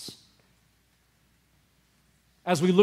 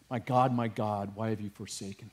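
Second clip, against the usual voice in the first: anguished cry; 7 semitones lower, 9 dB quieter than usual. Acted. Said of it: "pierces my heart every time".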